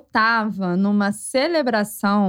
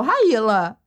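high-pitched, slowed imitation of a mother; mother's voice; 7 semitones higher, slower than usual. Mother on the phone asking her daughter if she's going out, high-pitched. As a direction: play the worried mum, voice pitched way up. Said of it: "sua mãe falou".

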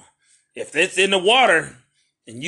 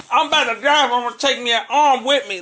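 dramatic dying voice; 8 semitones higher, 3 dB louder than usual. Acted. Acted dying fish victim.

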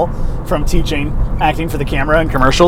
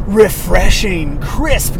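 ad read; much slower than usual. Shown as a demonstration. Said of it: "So you're like".

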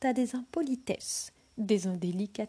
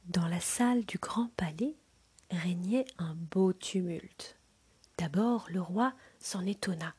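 whispered storytelling. A narrator's reading. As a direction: breathe the tale to a sleeping child. Whispered narration.

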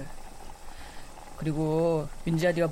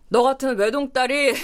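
higher, louder indignant outburst; heated complaint; 6 semitones higher, 7 dB louder than usual. Acted. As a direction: vent the second-daughter grudge. Heated complaint about being second daughter.

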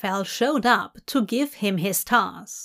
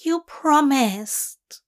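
slow, higher-pitched reproach; Aziraphale complaining; 4 semitones higher, slower than usual. Acted. Angel reminding demon of his driving promise, complaining. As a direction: draw it out as a fussy complaint. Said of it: "Aziraphale complains".

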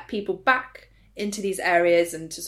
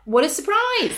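sarcastic; 10 semitones higher, 4 dB louder than usual. Real, not acted. Sarcastic reaction to prince's story.

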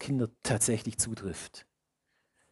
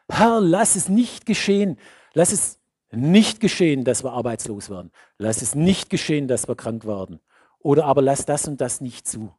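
pleading prayer; 6 dB louder than usual. Retold or imitated. Imitated prayer for protection.

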